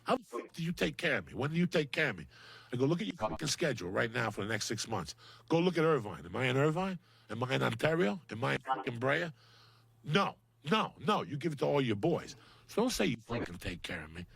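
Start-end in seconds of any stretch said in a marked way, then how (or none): 0.0-2.3 retold indignant outburst, rising as it goes; snapping. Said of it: "and I snapped, Joe, and I go". 2.9-14.2 snapping. Retold or imitated. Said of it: "and I snapped".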